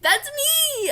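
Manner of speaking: high, loud delighted cry; excited recognition. Retold or imitated. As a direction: point at yourself in glee. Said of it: "And I'm like".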